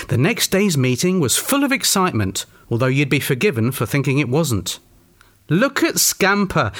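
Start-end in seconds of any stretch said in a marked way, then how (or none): 5.5-6.7 high, drawn-out storybook exclamation; exclaiming. A narrator's reading. Norman points out the dog Scamper, exclaiming. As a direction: exclaim it slowly, pitched up. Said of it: "exclaimed Norman".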